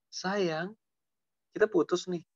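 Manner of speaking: put-on understated jilting boyfriend; mock breakup speech. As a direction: break up gently, then make the demand. Acted boyfriend demanding gifts back.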